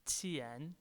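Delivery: 钱 said with pitch rising, second tone. Shown as a demonstration. Teacher repeating the word for money, 钱 in rising second tone. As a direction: let 钱 climb upward in tone. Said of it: "a rising tone".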